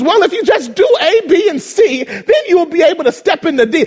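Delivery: condescending instructions. Retold or imitated. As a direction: lecture like a smug helper. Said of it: "give us good instructions".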